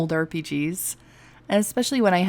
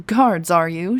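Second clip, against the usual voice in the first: smirking; 6 dB louder, slower than usual. Acted. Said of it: "she smirked".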